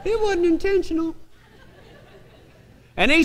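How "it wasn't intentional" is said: singed voice. Shown as a demonstration. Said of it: "why I was talking like this still".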